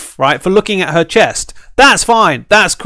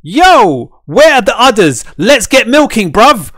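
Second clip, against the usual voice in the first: mock greedy bro; 4 semitones higher, 4 dB louder, slower than usual. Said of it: "Netmarble's like".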